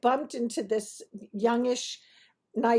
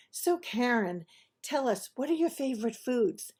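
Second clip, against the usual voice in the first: ordinary talk, nothing marked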